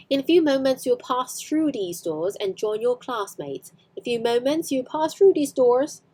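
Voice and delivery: a light hint of an Edinburgh accent, rhotic R in "doors"; poor Edinburgh accent. Teacher poorly imitates the vice principal, hint of Edinburgh accent. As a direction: lightly mimic Maggie Smith's Edinburgh accent. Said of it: "doing a very poor imitation of Maggie Smith's accent".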